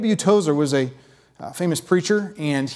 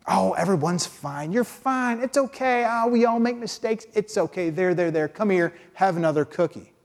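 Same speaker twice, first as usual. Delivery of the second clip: doting grandmother cooing; 3 semitones higher than usual. Retold or imitated. Preacher voicing God as a grandmother who soothes everyone. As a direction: comfort the kids like a doting granny. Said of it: "similar to a doting grandmother".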